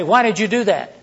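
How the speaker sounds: accusing, hitting why hard; "why" punched like an accusation. Shown as a demonstration. To a co-worker, a pointed accusing question. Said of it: "What does that imply?".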